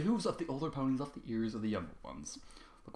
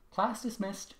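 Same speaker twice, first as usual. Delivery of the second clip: flat; 9 semitones higher, slower than usual. A narrator's reading. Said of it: "she said, flatly still".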